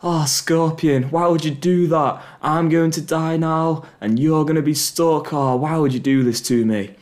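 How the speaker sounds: a wounded frog crying out in disbelief; dying frog yelping. Acted. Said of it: "it yelps".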